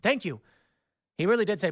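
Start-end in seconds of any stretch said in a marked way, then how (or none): 0.0-0.4 higher, gushing thanks, lightly imitated; grateful driver. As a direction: imitate the driver overflowing with gratitude. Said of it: "his demeanor changes instantly".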